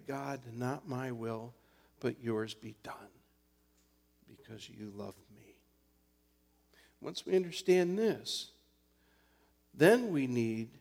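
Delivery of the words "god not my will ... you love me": quiet prayer. Retold or imitated. Pastor voicing his own humble prayer, soft. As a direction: pray it humbly, softly. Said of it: "to pray".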